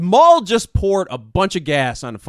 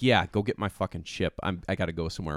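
brooding Palpatine; 8 semitones lower, 8 dB quieter, faster than usual. Retold or imitated. Acting out brooding Palpatine's order.

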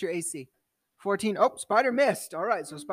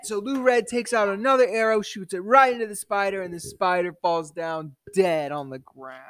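dramatic storyteller's account of the action; game master narration; 5 dB louder than usual. Acted. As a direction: narrate the action, winding down to the end.

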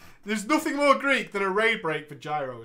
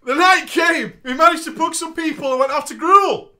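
epic announcement; 7 semitones higher, 10 dB louder than usual. Acted. Dramatic storytelling build.

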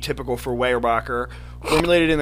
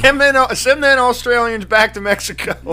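loud, high holler; mock outrage; 8 semitones higher, 6 dB louder than usual. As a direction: shout it in put-on indignation. Mock outraged reply in put-on voice.

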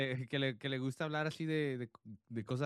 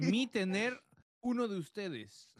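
high, slow primitive speech; broken-Spanish caveman; 5 semitones higher, slower than usual. Pretend. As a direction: speak like a caveman chief. Broken speech to cannibal tribe.

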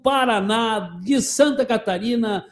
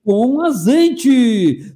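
very slow jingle-style slogan; slogan read; much slower than usual. Acted. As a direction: stretch the sponsor slogan out. Drawn-out sponsor slogan. (bordão publicitário bem arrastado)

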